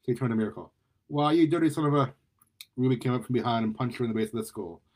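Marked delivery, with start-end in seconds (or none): 1.1-2.1 louder, higher angry outburst; indignant raised-voice accusation; outraged. Acted. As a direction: start cursing the attacker, cut off short. Turns on attacker of her ally.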